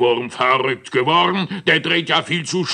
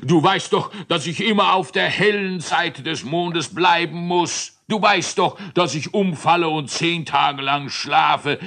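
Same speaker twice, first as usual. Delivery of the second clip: panting giant; 8 semitones higher than usual. Acted. Moon giant pants and begs the Drehwurm to stop. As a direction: gasp out the words, exhausted from running. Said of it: "Er keuchte".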